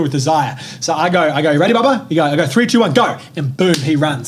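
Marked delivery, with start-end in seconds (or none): 1.5-2.1 higher-pitched parent voice; imitated peppy cue to a little one; talking to toddler. Parent cueing young son. 2.5-3.2 higher, playful countdown; imitated parent's starting call; countdown for a child.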